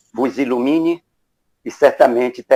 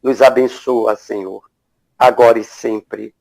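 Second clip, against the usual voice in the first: measured prayer in short phrases with long pauses; unhurried invocation, phrase by phrase; spoken prayer. Real, not acted. Moderator praying to open the spiritual evening, measured invocation.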